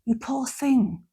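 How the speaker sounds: a little condescending sorrow; pitying. Shown as a demonstration. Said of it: "reacted that way and said".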